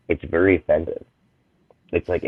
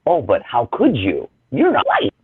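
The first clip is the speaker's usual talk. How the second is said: mock biased white person; 6 semitones higher than usual. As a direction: parody a doubter, voice leaping high at the end. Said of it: "that bias of".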